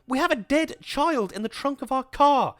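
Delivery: high, loud roar. Acted. Husband roars at his wife about the dead child. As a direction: roar it right at her. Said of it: "he roared at her".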